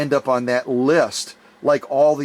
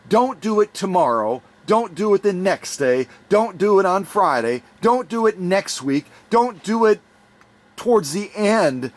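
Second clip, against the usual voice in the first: higher, building emphatic repetition; urgent plea; 5 semitones higher than usual. Real, not acted. Host urging viewers to donate today, building urgency. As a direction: push harder each time, rising.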